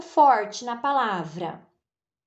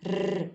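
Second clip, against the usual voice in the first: rolled r sound; 3 semitones lower, 4 dB quieter than usual. Shown as a demonstration. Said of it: "parece que faz assim".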